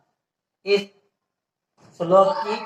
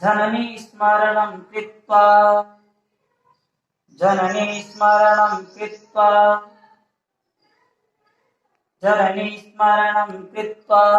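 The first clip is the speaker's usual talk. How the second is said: repeat-after-me recitation; slower than usual. Shown as a demonstration. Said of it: "आप दोनों को साथ में मिलाएंगे".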